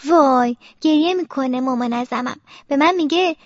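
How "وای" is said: slow, raised moan to God; acted drawn-out groan; pained lament. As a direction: wail wearily through pain. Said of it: "همش میگه".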